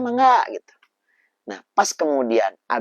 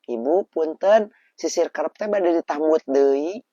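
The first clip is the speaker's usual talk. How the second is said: polite way; 4 semitones higher, slower than usual. Shown as a demonstration. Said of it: "Nah, apa?".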